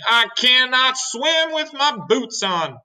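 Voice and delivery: high, slow, distressed centipede cry; shouting. A narrator's reading. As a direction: cry out in panic, stretching the words. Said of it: "shouted the centipede".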